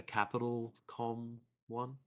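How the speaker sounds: stuffy nasal voice from a cold. Real, not acted. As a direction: talk like your nose is blocked. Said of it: "my voice is so, like, nasally".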